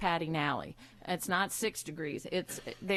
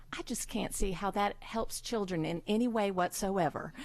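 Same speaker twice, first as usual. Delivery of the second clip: nice Southern voice. Retold or imitated. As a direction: sweetly shoot the idea down, in a light Southern lilt. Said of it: "she said it in that nice Southern voice".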